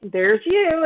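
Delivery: high, squeaky creak of the door. Retold or imitated. Teacher voicing the squeaking door, high and squeaky. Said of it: "So it goes".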